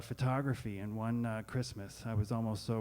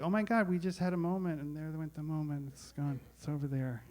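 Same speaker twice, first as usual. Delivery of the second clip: gushing; 6 semitones higher than usual. Retold or imitated. Mock gushing about lost moment.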